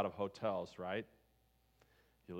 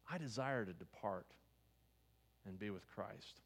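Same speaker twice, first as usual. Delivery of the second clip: soft reverent quote; 2 semitones lower, 6 dB quieter than usual. Retold or imitated. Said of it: "He says".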